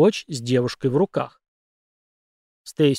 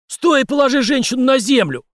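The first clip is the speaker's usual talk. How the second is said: much higher, loud yell; shouting; 11 semitones higher, 6 dB louder than usual. A narrator's reading. Cop yelling at the suspect to drop the woman. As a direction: yell the order at full voice. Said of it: "крикнул Марк".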